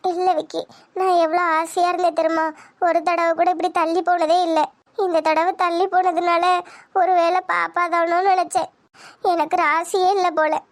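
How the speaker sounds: mildly tearful disappointment; understated weepy lament. Acted. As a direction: confide the lost hope, close to crying. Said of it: "இதுக்கெல்லாமா அழுகுறது".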